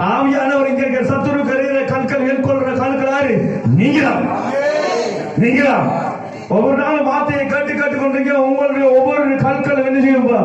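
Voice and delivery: sustained, driving preacher's delivery; fervent preaching. Acted. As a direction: press it home to the congregation. Preaches with rising force. (உற்சாகமான பிரசங்கக் குரல்)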